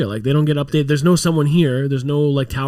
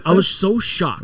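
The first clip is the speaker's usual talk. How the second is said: drawn-out, higher "so" for emphasis; stress on SO; 4 semitones higher, slower than usual. Real, not acted. Tourist tells friend of his surprise, stretched emphatic "so". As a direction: lean hard and long on "so".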